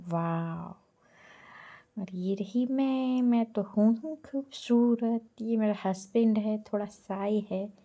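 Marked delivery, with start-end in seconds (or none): 2.1-5.4 higher, drawn-out, playful boast; playful self-praise. Real, not acted. Showing viewers her own photo, playful self-praise. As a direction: stretch it out higher, mock-vain.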